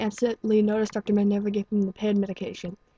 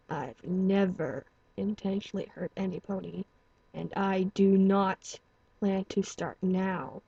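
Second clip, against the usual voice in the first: mild hiss; slower than usual. Acted. Stallion answers the doctor's threat in a slow, hushed hiss. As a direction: push the words out slowly through anger. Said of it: "he hissed angrily".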